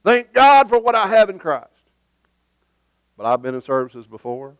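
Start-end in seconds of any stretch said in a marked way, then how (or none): 0.0-1.7 confident testimony. Retold or imitated. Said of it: "Testimony time ought to be".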